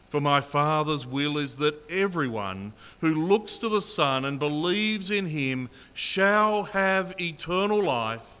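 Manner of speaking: measured, solemn reading of a Bible passage; scripture reading. Acted. Pastor reading scripture to the congregation, solemn and measured.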